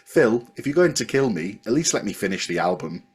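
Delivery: imperfect put-on Liverpool accent; a singer. Podcaster quoting a singer at gunpoint to Phil, attempted Liverpool accent. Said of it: trying to do the singer's accent.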